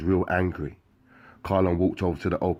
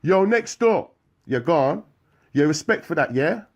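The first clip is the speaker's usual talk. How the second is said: very high, loud thanks; calling out; 11 semitones higher, 6 dB louder than usual. Acted. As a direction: shout across to next door. Calling out window.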